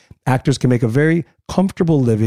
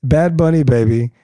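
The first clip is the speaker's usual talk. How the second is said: lightly imitating her voice; man doing a woman's voice. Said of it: "in her voice".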